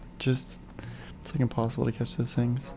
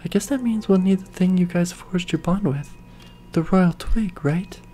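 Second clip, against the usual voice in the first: lightly voiced storybook hero, earnest; game character voice; 4 dB louder than usual. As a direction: read the quest line like the hero. Player voices game character dialogue.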